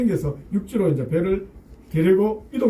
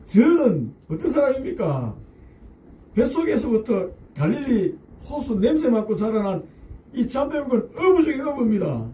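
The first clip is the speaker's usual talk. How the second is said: indignant fisherman arguing with his teacher; Peter protesting inwardly; 3 semitones higher than usual. Acted. Peter protests to Jesus, indignant and proud. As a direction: push back, proud of your trade. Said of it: "속으로 이렇게 외쳤을 것 같습니다".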